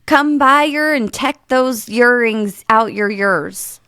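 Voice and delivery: put-on slow Welsh accent. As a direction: repeat it in a Welsh lilt. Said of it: "can I have it one more time".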